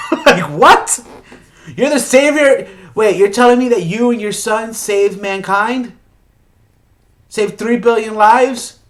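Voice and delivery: loud, high-pitched disbelief; acted incredulity. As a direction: react as if the answer is absurd. Incredulous reaction to the girl's refusal.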